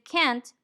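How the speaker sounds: "can't" with a full open a as in cat; full-vowel "can't". Shown as a demonstration. Teacher showing the negative form, full vowel. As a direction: say "can't" clearly, vowel unreduced. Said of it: "should sound like can't".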